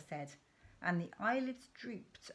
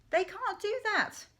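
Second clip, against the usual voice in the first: high, louder protest; cried out; 14 semitones higher, 7 dB louder than usual. Acted. Danny protesting to his father, crying out high. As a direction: cry it out in shock. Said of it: "I cried".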